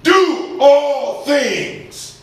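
very slow, high command; ringing, drawn-out imperative. Acted. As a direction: give each word its own long beat. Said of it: "Give a command".

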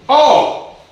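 All. hit high and loud; one word All. thrown out at the top of the voice; emphatic all. Real, not acted. Single emphatic word in sermon.

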